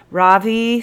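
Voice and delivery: sighing. A narrator's reading. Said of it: "sighed the captain".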